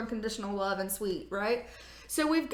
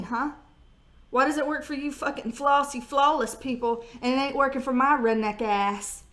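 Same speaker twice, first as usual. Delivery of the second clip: ordinary talk, nothing marked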